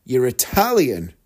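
slow dawning realisation. Retold or imitated. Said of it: "And I go".

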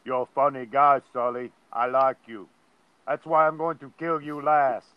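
put-on low Austrian-accented Arnold voice; Arnold impression. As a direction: do your best Schwarzenegger. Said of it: "let's see if I can do an Arnold impersonation".

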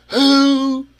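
furious high yell, half laughing; drill instructor yell. Retold or imitated. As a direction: bellow it at the whole room of recruits. Drill instructor demanding answers.

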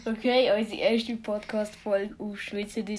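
Swiss German pronunciation. Real, not acted. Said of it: "Wir sind jetzt auf Schweizerdeutsch".

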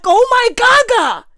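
very high, slow delighted gasp; hammed-up high swoon of delight; gushing. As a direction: swoon over it in a high drawn-out squeal. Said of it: "I was like".

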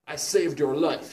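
mock angry yell. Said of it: "he yelled angrily".

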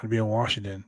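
lightly voiced low-pitched invitation; a hint of a low wrestler voice; Jake the Snake Roberts. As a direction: drop your pitch a little, casual pitch to friends. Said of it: "Jake the Snake Roberts ... contacts me".

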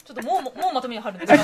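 laughing while asking. Real, not acted. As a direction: talk through a laugh. Laughing at early wrap-up.

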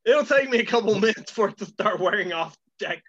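numb-tongued and slurred; numb mouth. Real, not acted. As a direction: talk through a numbed mouth. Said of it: "can't feel my tongue".

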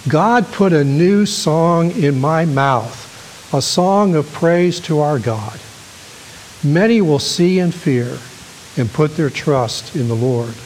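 preacher reading a psalm aloud with weight; scripture reading. Acted. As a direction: declaim the verse to the congregation. Reads scripture to congregation.

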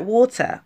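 "water" with an American r; American-style water. Shown as a demonstration. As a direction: say "water" like an American, rolling the final r. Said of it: "if you say it with an English accent".

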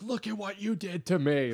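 high-pitched comic whine of blame; Sebastian Maniscalco. Retold or imitated. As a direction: whine it like a wronged driver. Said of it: "he was like".

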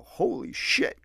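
mock yell. Dad yelling at the news.

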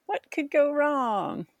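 slow, dry ironic; sarcastic. Real, not acted. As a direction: ask it with heavy irony. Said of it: "ironic question".

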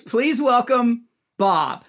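slow, high mock announcer with no build-up; high, slow hammed-up emcee; flat emcee intro. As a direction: drag out the limp introduction. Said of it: "he goes".

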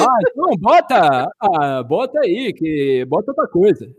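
put-on grumpy old man complaining; creaky elderly grumble, lightly done. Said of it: "com voz de velho". (voz de velho rabugento)

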